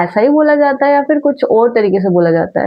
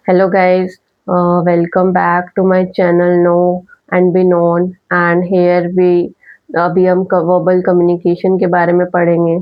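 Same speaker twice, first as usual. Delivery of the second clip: lower, level pitch held flat with no rise or fall; monotone; 5 semitones lower, much slower than usual. Shown as a demonstration. Teacher showing students how a flat voice sounds, monotone. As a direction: drone it out on a single note like a bored reader. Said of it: "अगर मैं ऐसे बोलती रहूँ".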